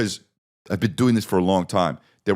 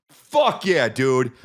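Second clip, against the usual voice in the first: high whoop of triumph; excited cheer; 5 semitones higher, much slower than usual. Real, not acted. Comic celebrating the right name, pitched way up. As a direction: yell it like you nailed it.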